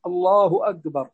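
أكبر said as "agbar"; kaf turned qaf. Shown as a demonstration. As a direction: back the k of أكبر into a hard g-like qaf. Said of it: "هكذا". (نطق "أكبر" بإبدال الكاف قافا)

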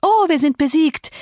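mock wail, pitched high on Oh; theatrical sarcastic cry of defeat; hammed-up high lament. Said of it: "rief Catherine".

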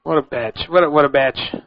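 BITCH with an odd open vowel, like "batch"; odd pronunciation. Real, not acted. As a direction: say "bitch" oddly, nearer to "batch". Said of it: "why I said it like that".

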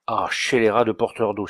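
a touch of angry exclamation in Auvergnat; lightly voiced outrage at the water carrier; mock outburst. Notary cursing his water carrier, mild anger. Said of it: "s'écria-t-il".

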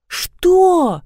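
high, outraged Что; mother offended by cheap toys, indignant. A narrator's reading. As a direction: bristle at the very idea. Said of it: "возмутилась Майя".

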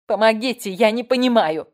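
false plea. A narrator's reading. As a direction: overplay the fear so it rings false. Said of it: "Фальшь в её голосе резала слух". (фальшивый крик о помощи)

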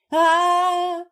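high, loud piercing squeal; wife shrieking as she breaks free; shrill shriek. A narrator's reading. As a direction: let out a frantic shriek. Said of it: "завизжала Майка".

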